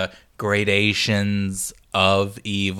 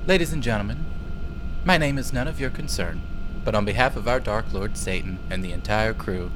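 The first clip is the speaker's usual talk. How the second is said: lightly voiced airline announcement; flight attendant voice. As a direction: read it like a cabin crew greeting. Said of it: "let me get my flight attendant voice on".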